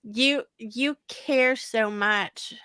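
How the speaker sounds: slow, moved, voice catching; fighting back tears as she speaks; choked up, emotional. Real, not acted. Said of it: "I'm gonna get emotional".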